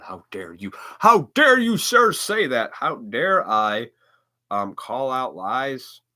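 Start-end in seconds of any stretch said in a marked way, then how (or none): 0.0-0.7 soft, dropped-away how dare you; muttered disbelief. Retold or imitated. Mock outraged political argument. 1.0-3.9 hammed-up indignant shout, much higher and louder; mock outrage. Mock outraged political argument.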